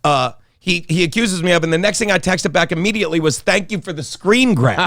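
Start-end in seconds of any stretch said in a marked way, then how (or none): 3.4-4.9 chuckling through a cheeky thank you; a light laugh in the voice. Retold or imitated. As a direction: grin it out, amused. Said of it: "I started laughing as I said it".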